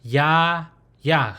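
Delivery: "ya" drawn out open, "yah" closed off; teacher modelling open then closed "ya"; consonant demonstration. Shown as a demonstration. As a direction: sound out "ya, yah" clearly. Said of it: "the consonant is pronounced ya".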